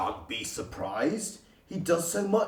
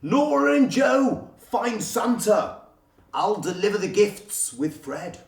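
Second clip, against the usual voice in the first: higher, louder barked commands; shouted orders; 6 semitones higher, 4 dB louder than usual. Acted. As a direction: call out orders in a hurry. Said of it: "Basil shouted orders".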